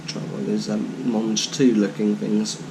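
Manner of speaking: chewing while talking; muffled words round food; mouth full. Real, not acted. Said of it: "eating with my mouth full".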